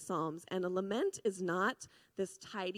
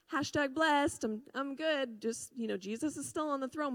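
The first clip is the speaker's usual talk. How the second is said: lightly mocking, higher-pitched "I'm fine" voice; breezy mock positivity; 6 semitones higher than usual. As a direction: imitate someone glibly insisting all is well. Mimics Christians glossing over lament.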